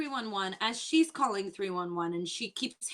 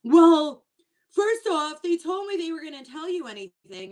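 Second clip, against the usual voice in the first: loud high huffy "Well, first off"; a hammed-up indignant guest pushing back; mock indignant guest; 6 semitones higher, 7 dB louder than usual. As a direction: play the offended guest, pitched up and loud. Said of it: "And she's like".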